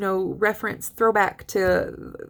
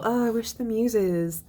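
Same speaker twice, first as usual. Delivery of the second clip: teacher voicing the poet's wistful wish. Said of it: "She's just kind of this wistful".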